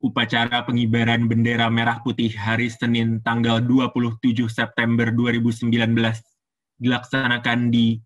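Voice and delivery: low, even ceremonial announcement; formal low-toned master of ceremonies; protocol officer. Shown as a demonstration. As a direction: read out a flag ceremony formally, all on low notes. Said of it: "nadanya bawah semua".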